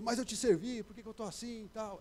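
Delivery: mock-proud whine, pitch lifted; proud complaint. King complaining proudly to God, mock-indignant lifted voice. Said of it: "já pensou se ele fosse orgulhoso".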